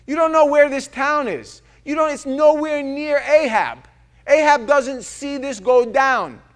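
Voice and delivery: "All of a sudden" shouted high and loud; excited preaching. Real, not acted. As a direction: pitch climbing, loud and fired up. Excited preacher retelling story.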